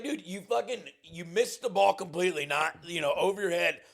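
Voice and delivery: imitating an indignant comeback. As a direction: fire back at the taunter. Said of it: "I was like".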